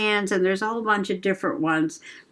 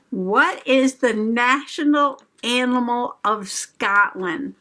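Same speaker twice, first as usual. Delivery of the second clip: teasing quiz question; 3 semitones higher than usual. Shown as a demonstration. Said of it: "You ready?".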